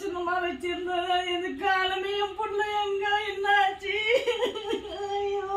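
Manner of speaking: crying wail. Acted. Wife wailing over lost baby.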